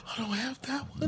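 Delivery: clerk voice. Retold or imitated. Retelling a store clerk.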